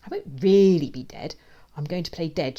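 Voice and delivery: amused reassurance. A narrator's reading. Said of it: "she laughs".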